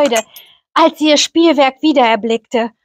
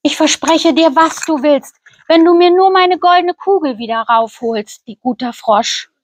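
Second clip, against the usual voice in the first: higher, hurried princess promise, fast; hasty princess; 3 semitones higher than usual. Acted. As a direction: rush the promise to get her ball back.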